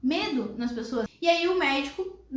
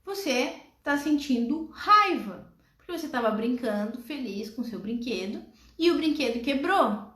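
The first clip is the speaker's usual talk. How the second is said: gentle mother. Acted. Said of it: "Aí a mãe continua".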